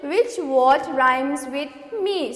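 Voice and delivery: a slow reading of the question. Shown as a demonstration. Teacher reads the second worksheet question slowly. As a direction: read out which word rhymes with me slowly. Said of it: "second question".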